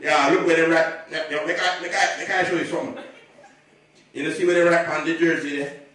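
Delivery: a hostile Jamaican dad scolding his daughter's fiancé; Jamaican father. Retold or imitated. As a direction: growl it like a scary Jamaican dad.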